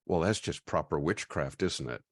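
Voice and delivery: lightly imitated British accent. Quoting a friend over lunch, mild British accent. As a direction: quote him with a touch of British lilt. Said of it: "said in his wonderfully British accent".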